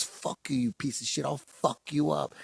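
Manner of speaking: mock tough-guy threat, hushed; hissed threat. Fighter threatens him backstage.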